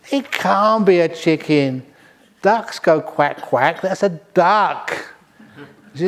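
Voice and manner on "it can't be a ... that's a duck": stubborn husband. Acted. Husband argues duck, slowly.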